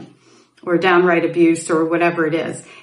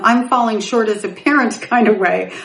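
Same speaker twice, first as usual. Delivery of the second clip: laughing. Real, not acted. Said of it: "which I'm laughing now".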